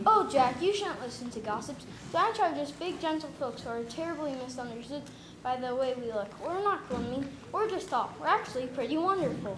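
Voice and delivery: gentle reassuring. Acted. Giant gently reassures Jack.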